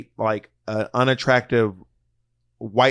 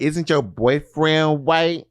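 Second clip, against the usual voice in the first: attempted Texas accent; 3 semitones higher, much slower than usual. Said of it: "I can't do her Texas accent".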